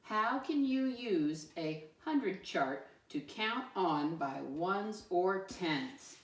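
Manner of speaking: put-on slow, deliberate statement reading for kids; slow, clear teacher read-aloud. Shown as a demonstration. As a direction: read it out slowly so they can follow. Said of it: "Read it with me this time".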